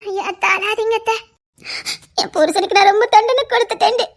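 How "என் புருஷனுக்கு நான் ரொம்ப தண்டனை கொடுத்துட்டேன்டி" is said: crying regret. Acted. Aunt crying over punishing husband.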